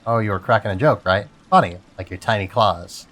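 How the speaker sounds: lightly voiced crab trading jabs. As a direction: tease back like a smug crab. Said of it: "this is my crab voice".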